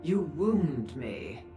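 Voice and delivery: slow, drawn-out theatrical wounded pride; mock hurt. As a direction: draw it out as if dramatically offended. Feigns hurt at a customer.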